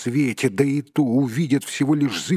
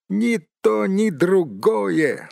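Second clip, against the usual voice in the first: high, drawn-out cry of relief; relieved exclamation; 10 semitones higher, 4 dB louder, slower than usual. A narrator's reading. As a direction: exclaim with relief, pitch lifted. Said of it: "с облегчением воскликнул Бильбо". (с облегчением, восклицая)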